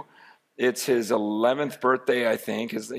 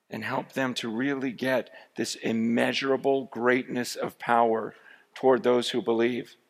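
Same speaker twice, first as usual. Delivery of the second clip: prayer. Acted.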